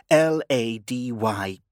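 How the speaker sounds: L A D Y 한 글자씩 천천히 또박또박; spelled out slowly. A narrator's reading.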